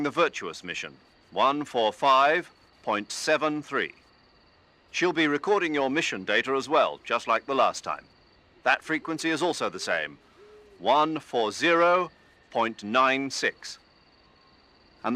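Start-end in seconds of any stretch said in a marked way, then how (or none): 1.3-3.9 slow, each number spelled out for the listener; carefully dictated frequency; slow dictation. Acted. Reading out a radio frequency. 10.8-13.8 slow, each number spelled out for the listener; carefully dictated frequency; slow dictation. Acted. Reading out a radio frequency.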